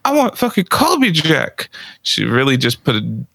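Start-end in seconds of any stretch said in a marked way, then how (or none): 0.0-1.7 much higher, insistent mock whine; squeaky demanding imitation of the girlfriend. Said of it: "She's like".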